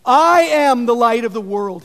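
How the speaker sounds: preacher declaring Jesus' words boldly; loud proclamation. Acted. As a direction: ring it out loud to the crowd. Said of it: "he proclaims".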